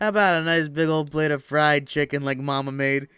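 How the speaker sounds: loud, booming mock-homey pitch; hammed-up folksy bellow; folksy put-on voice. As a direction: proclaim it heartily like a corny diner ad. Voicing same folksy line louder.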